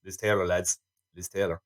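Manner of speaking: low, soft put-on voice; hushed mock boast to old pals; Kane boasting to mates. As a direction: confide a brag to the lads, low and quiet. Acts Kane boasting to the lads.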